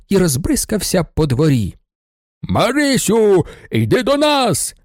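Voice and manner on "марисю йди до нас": drawn-out higher holler; a prankster shouts to the girl upstairs; calling out. A narrator's reading. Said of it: "гукав басовитий голос".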